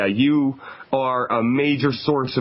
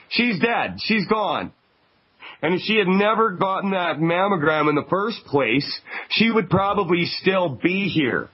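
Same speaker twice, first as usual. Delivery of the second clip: raised pitch, insistent and upset; emphatic grief; 5 semitones higher than usual. Real, not acted. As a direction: hammer home that she died needlessly. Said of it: "This is serious business".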